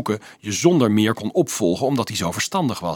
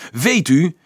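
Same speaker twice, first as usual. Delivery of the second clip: sudden angry outburst, higher and louder; exploding in rage; 8 semitones higher, 6 dB louder than usual. A narrator's reading. Boy finally exploding at the priest, furious outburst. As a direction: blow up, voice cracking with fury. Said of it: "terwijl drift zijn stem deed overslaan".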